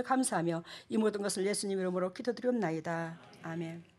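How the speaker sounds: soft, steady prayer voice fading at the end; hushed church prayer; offering prayer. Acted. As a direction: pray over the offering, reverent and soft. Pastor leads offering prayer.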